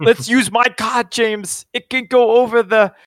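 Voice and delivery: a hint of a French accent, said playfully. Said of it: "That's your French accent".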